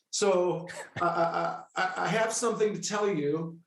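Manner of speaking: imitated nervous stuttering; nervous stammer. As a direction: stumble over the words, acting unsure. Retells nervously breaking news to client.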